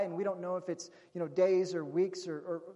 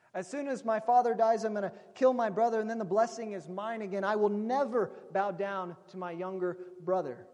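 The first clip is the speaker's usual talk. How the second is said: mildly angry, raised voice; vengeful vow; 3 dB louder than usual. Acted. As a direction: build a vengeful vow with some force. Vengeful brother's vow, acted louder.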